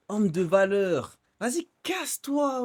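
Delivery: slow, drawn-out jeer; scornful mocking dismissal. Real, not acted. Streamer mocking a pickup artist's boast, scornful drawl. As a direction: stretch the words out in scorn.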